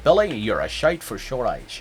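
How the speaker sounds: lightly voiced Scottish film star with slurred sh; Sean Connery. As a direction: turn each s into a mushy sh. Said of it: "a Sean Connery impression".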